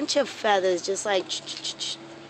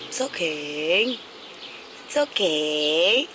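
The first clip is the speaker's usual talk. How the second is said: coaxing a wild bird; 5 semitones lower, slower than usual. Real, not acted. Soothing a scared bird.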